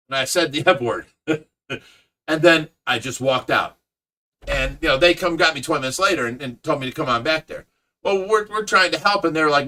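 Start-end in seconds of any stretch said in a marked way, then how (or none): none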